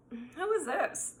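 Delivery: soft, slow, controlled question; cool, calm, collected. Retold or imitated. Guest hiding her freak-out from the intruder, outwardly calm. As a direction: keep it quiet and composed, drawn out. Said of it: "calm, collected".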